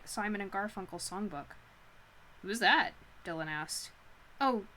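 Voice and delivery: measured audiobook-style reading; story narration. A narrator's reading. Reading Nora's awkward meeting with Ash, story narration. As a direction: read the novel aloud to listeners. Reads a novel aloud.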